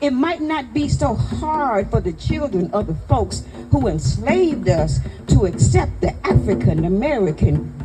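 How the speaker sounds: proud, rhythmic spoken-word delivery; emphatic spoken-word poem with rolling cadence; poem recitation. Acted. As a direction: recite it as a tribute, phrase by phrase. Recites poem on first lady.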